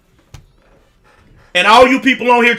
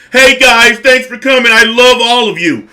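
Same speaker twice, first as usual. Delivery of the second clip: higher, louder mock friendly creator greeting; mock sweet youtuber; 3 semitones higher, 3 dB louder than usual. Mocking fake-nice content creators to his viewers, higher and louder. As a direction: parody a fake-nice youtuber thanking fans. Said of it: "the most disrespectful thing that content creators do".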